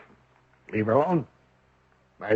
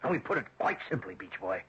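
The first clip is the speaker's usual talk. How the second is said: cold menace; 6 semitones higher than usual. Acted. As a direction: drag each word out as a warning. Father menaces the suitor.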